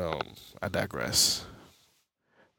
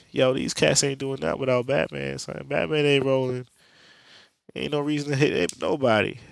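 higher, louder, worked-up pitch; higher excited rant about Batman; hyped-up insistence; 5 semitones higher, 4 dB louder than usual. Retold or imitated. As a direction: sell it like Batman's the only one. Cyborg hyping Batman up.

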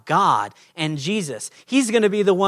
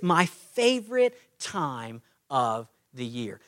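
gentle invitation; 3 semitones lower than usual. Pretend. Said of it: "gently and graciously".

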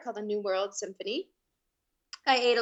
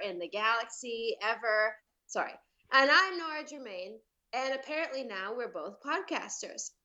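podcast intro. Acted. Guest recording the host's intro from memory, announcer style. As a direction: recite the show opening from memory.

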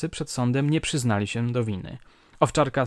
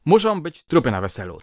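put-on loud, higher drunken threat; drunk shout; 4 semitones higher, 5 dB louder than usual. A narrator's reading. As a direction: yell the threat at the guests. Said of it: "wołał".

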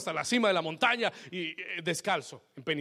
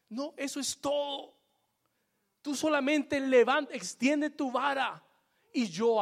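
God's firm answer; 9 semitones higher, 4 dB louder than usual. Retold or imitated. God answering Moses.

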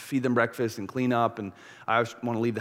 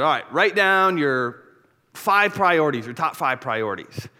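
pastor instruction; 4 semitones higher, 6 dB louder, slower than usual. Pretend. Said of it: "I said".

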